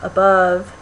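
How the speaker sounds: careful "above", weight on BOVE; stress on second syllable. Shown as a demonstration. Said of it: "it's longer, a little louder".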